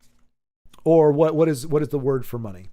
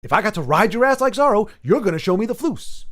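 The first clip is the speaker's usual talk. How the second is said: movie quote impression; 6 semitones higher, 3 dB louder than usual. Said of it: "I'll be like".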